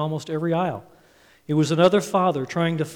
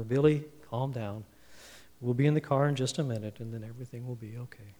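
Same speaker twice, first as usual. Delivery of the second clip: lower, softening, reassuring tone; very calm dad; 3 semitones lower, 5 dB quieter than usual. Retold or imitated. Dad to screaming, kicking boy at checkout, very calm. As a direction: keep it calm, trailing into a soft reassurance. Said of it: "Dad was still very calm".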